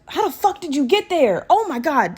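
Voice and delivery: high incredulous cry at the snake; real shock, pitch leaping up; stunned disbelief. Real, not acted. Talks to snake found in drawer.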